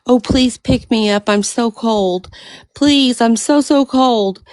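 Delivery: storyteller's lightly voiced pleading snake. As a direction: beg lightly to be picked up from the cold. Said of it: "And the snake says".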